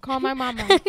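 loud threat. Retold or imitated. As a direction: bark it out as a threat. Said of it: "And then I say".

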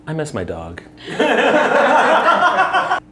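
sucking a lollipop; candy stick between lips; laughing with candy in mouth. Real, not acted. Seen 3: Red push pop held at his lips throughout labelled laugh.

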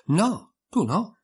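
slow, high, scornful dismissal. Acted. Twin sneering at Alice, slow and scornful. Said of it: "replicò Tweedledee in tono sprezzante".

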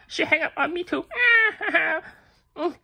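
laughing lament. Real, not acted. Rejected seller laughs tearfully at another hang-up. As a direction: laugh through the disappointment. Hung up on again.

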